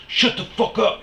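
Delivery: high, loud imitated snarl; mock angry yell. Stranger snapping at him, imitated as a high loud yell. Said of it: "And he's like".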